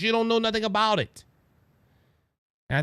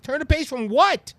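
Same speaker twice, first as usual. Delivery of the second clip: questioning voter; 6 semitones higher, 4 dB louder than usual. Retold or imitated. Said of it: "when people ask".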